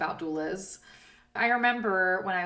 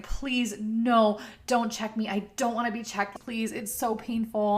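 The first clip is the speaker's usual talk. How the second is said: higher, pleading please, no, don't check me; mock begging; 3 semitones higher than usual. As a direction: beg them in a lightly imitated higher plea. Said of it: "I was like".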